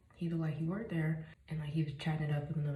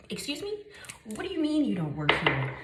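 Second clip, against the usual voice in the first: high pitched startled excuse me, then louder; shocked disbelief; 4 semitones higher, 4 dB louder than usual. Retold or imitated. To the employee who tricked her, shocked. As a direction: retell your stunned disbelief at him.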